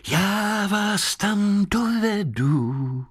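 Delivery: high, slow moon voice; kindly moon speaking from the sky. Acted. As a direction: drawl it like the moon calling down. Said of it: "ozvalo se z nebe".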